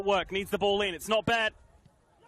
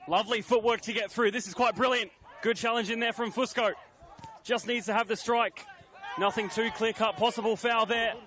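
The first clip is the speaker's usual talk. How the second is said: raised, lively call of the attack; excited commentary; 5 semitones higher than usual. Real, not acted. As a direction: build energy as the move unfolds. Commentator calling a promising attack.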